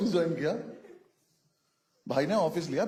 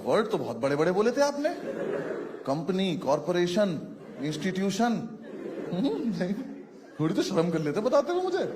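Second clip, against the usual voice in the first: mock scolding; 3 semitones higher than usual.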